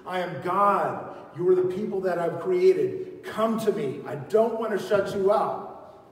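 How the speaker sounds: God pleading loudly with his people; God calling out. Acted. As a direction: call them home as a loving God. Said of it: "the Lord is always calling out to people saying".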